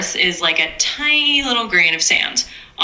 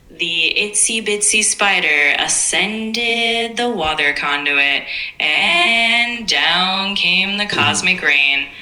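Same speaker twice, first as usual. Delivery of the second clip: slow, echoing spacey tone; otherworldly alien voice; much slower than usual. Pretend. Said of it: "In a sort of echoing, spacey tone".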